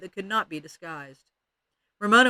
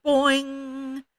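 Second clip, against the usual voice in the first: high, ringing twang; yelled boing; 8 semitones higher, 4 dB louder than usual. A narrator's reading. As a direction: call it out high like a plucked spring. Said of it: "tweaked a curl and yelled".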